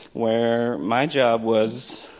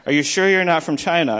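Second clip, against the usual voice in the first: retold girl; 7 semitones higher, 6 dB louder than usual. Voices the girl's doubting question.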